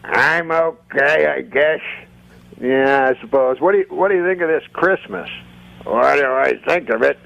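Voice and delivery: a hint of a grudging old puppet; old man puppet. Puppeteer voices old man puppet answering about Christmas, lightly put-on old man voice. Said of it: "Rusty's old man voice".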